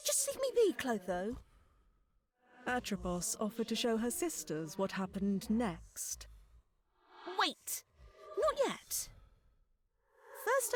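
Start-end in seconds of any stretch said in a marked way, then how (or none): 0.1-1.4 exasperated sigh. Acted. Sighing, annoyed sister. 7.4-10.7 urgent call. Acted. Urgent interruption.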